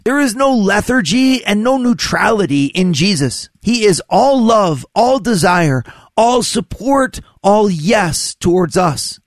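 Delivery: ordinary talk, nothing marked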